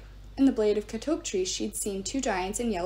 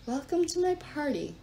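murmuring goddess; 5 semitones higher than usual. A narrator's reading. Gaia murmurs to the trapped heroes, sinister. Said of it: "Gaia murmured".

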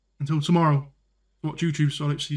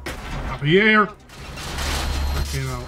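loud exclamation; 5 dB louder, much slower than usual. Real, not acted. Self-correction exclaimed.

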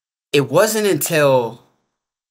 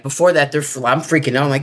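usual speaking voice

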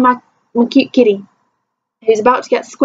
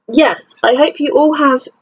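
careful, proper telephone voice a little higher; 5 semitones higher than usual. Shown as a demonstration. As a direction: put on your polite telephone voice. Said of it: "Telephone voice on now".

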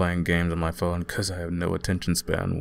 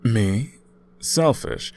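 a touch of mock indignation, pitch leaping higher on Selfish; mock offended; 4 semitones higher, much slower than usual. Accused of wanting the ice cream, mock offended. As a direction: act playfully insulted. Playfully denies being selfish.

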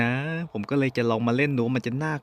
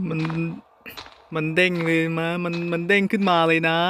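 normal talking voice

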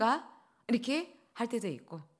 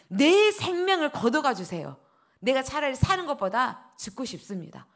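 Jonah's peeved, raised cry to God; loud, higher, sulky plea to die; angry outburst; 4 semitones higher, 5 dB louder than usual. Retold or imitated. Jonah sulking at God, asking to die, raised angry plea. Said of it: "얼마나 이렇게 썽을 내냐면".

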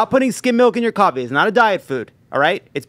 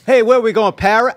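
put-on half-hearted go at a Boston accent, higher pitched; attempted Boston accent; 3 semitones higher, 4 dB louder, faster than usual. Joking about a Dunkin' Donuts order, attempted Boston accent. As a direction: try a Boston accent and miss. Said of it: "I can't do the accent".

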